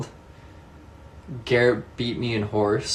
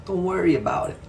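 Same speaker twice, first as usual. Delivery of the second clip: mock reassurance; 9 semitones higher than usual. Teasing reassurance, voice jumps.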